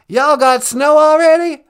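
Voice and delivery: loud Texan Bush voice; hammed-up Bush; George W. Bush impression. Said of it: "George W. Bush".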